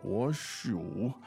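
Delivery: 我数 with a third-tone dip on 数. Shown as a demonstration. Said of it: "that third tone".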